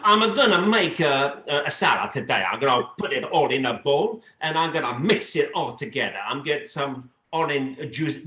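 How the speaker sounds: singsong put-on Italian accent. Shown as a demonstration. Showing off accents to the interviewer, in an Italian accent.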